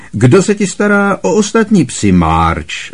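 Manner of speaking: Uncle Vernon. A narrator's reading. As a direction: Vernon pressing a question.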